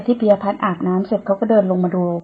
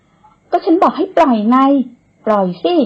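higher, slow insistent demand; demanding release; 5 semitones higher, 4 dB louder, slower than usual. Acted. Woman struggling in his arms demands to be let go. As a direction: tell him to put you down now. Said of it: "ดิ้นรนพร้อมกับบอกให้เขาปล่อย".

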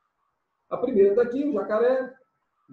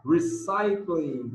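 slow reading aloud; much slower than usual. Shown as a demonstration. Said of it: "teacher reading slowly".

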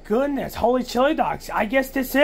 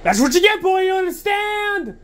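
angry; 7 semitones higher than usual. Acted. After hitting the cat.

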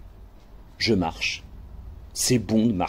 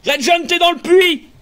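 much higher, urgent shout; alarmed shout; 12 semitones higher, 3 dB louder than usual. Acted. Crewman finding Red John in the well, alarmed shout.

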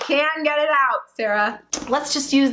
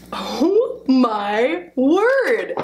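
drawn-out, strained oh my word; strained exclaim; 3 dB louder, much slower than usual. Pretend. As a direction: stretch it out as if pushing. Mock labor, squeezing the balloon.

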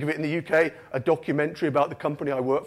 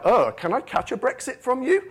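higher, awkward wariness; 6 semitones higher than usual. Acted. People warily question the visiting Brit, awkward. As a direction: ask it awkwardly, pitch lifted. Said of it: "it was kind of awkward".

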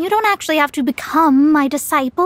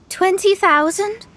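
higher, slowed repeat with a laugh; surprised; 5 semitones higher, slower than usual. Acted. Mona hears the twenty thousand mora reward, surprised and delighted. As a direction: perk up at the money.

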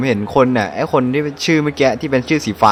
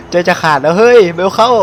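impatient excitement; 4 semitones higher than usual. Real, not acted. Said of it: "คนเล่นใจจะขาดแล้ว".

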